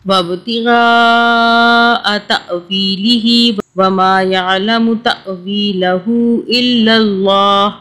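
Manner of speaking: measured melodic tilawat; Quran recitation. Acted. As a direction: recite the verse in steady chanted tajweed. (तिलावत के अंदाज़ में ठहरकर पढ़ना)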